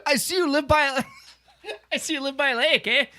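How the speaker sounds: laughing through a mock Canadian accent; lightly put-on Canadian accent; bad Canadian accent. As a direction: play a folksy Canadian neighbor. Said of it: "That's a bad accent".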